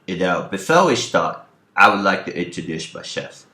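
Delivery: lightly done British actor voice; lightly voiced English actor introduction; Michael Caine. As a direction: introduce yourself like a British film star. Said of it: "My name is Michael Caine".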